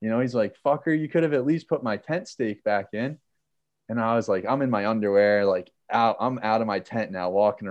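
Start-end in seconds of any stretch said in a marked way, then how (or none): 0.6-3.2 higher-pitched mock annoyance; retold pissed-off complaint. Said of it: "he's all pissed at me".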